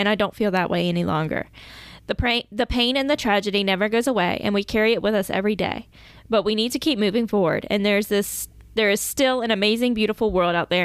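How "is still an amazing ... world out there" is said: ordinary talk, nothing marked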